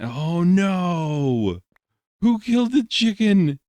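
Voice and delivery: high, loud shocked outburst; sudden dismay over the chicken; alarmed cry. Pretend. Sudden discovery of dead chicken.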